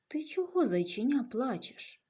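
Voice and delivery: big, loud elephant asking kindly; a big elephant booming gently at a little bunny. Acted. Elephant to the crying bunny, loud and caring.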